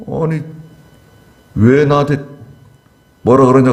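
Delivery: a general snapping back at his own king; talking back. Retold or imitated. Abner defying the king who scolded him, mock defiant retort. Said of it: "대들었어요".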